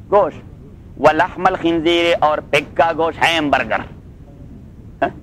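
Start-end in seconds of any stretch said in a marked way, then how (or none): 1.0-2.0 slow, drawn-out chanted recitation; slow Quran recitation. Shown as a demonstration. Teacher reciting the verse to his students, slow chanted recitation. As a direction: intone the verse slowly, stretching each word.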